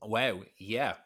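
talking while chewing; mouth full. Real, not acted. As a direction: speak through a mouthful. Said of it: "Sorry, I'm eating a".

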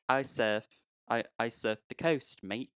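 half-hearted attempt at an Australian accent; badly faked Aussie surfer. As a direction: fumble through an Australian imitation. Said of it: "I can't do an Australian accent".

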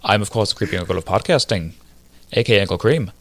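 hammed-up fake British accent; mock British lord intro; terrible British accent. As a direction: play a bad British lord. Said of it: "doing a terrible British accent".

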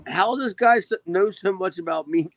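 mildly acted disbelief, pitch up at the start; baffled reaction. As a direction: replay your own confusion. Retells own baffled reaction to clip.

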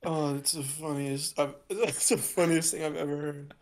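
after laughing hard. Real, not acted. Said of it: "I'm crying so hard".

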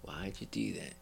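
retold protest. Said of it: "I'm like".

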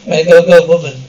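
loud urgent yell; urgent shout. Acted. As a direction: shout the warning over gunfire. Gunfire, someone yelling warning.

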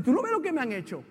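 mildly indignant reenacted protest; bratty complaint. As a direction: complain like a wronged child. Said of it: "Yo fui malcriado con Dios".

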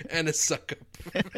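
loud accusation breaking into laughter; laughing mock accusation. Real, not acted. Host teases a gushing listener from the review, laughing accusation. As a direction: accuse him while cracking up.

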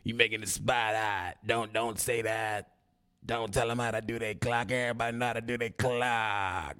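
Jigaboo voice. Retold or imitated. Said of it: "That's my Jigaboo voice".

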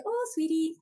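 tender mothering. Retold or imitated. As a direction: soothe yourself like a child. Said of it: "mother myself from a loving place".

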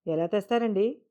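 puzzled, asking how; bewildered question. Acted. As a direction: ask in confusion. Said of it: "అయోమయంగా అడిగింది". (అయోమయంగా ప్రశ్న)

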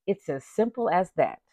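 slow, heavy, deliberate quote; slow mock-solemn prison voice; quoting Fleece. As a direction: lay down the law like the Booty Warrior. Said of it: "he said".

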